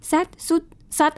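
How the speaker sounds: "set สุด sat" as sit with the vowel changed to e, u, a; variant mispronunciations. Shown as a demonstration. Host shows small sound differences a dog ignores, mispronouncing sit. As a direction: list "set สุด sat" slowly, one off vowel each. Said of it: "ความแตกต่างเล็กน้อยของเสียง".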